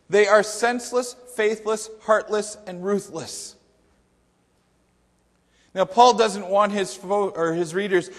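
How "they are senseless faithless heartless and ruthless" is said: emphatic list, starting high and falling at the end; dramatic scripture reading. Acted. Preacher finishes the verse's list of sins, emphatic scripture reading. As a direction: punch out each sin separately. Reads the Bible verses aloud.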